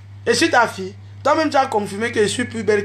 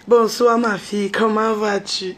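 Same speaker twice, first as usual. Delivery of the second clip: mock soft voice. Quoting the man greeting her, in a mock soft voice. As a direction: coo it like a man sweet-talking her. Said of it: "Tu fais la voix douce avec moi".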